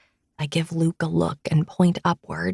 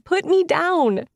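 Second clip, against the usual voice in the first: higher, slow, exasperated demand; protesting; 11 semitones higher, 3 dB louder than usual. Acted. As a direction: insist out loud, half laughing. Carried, protesting out loud.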